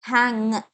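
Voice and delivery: ഹാങ് ending in a held NG; NG sound. Shown as a demonstration. Teacher isolates the first syllable, NG sound. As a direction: let ഹാങ് ring on the NG. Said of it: "ങ് sound വരുന്നുണ്ട്".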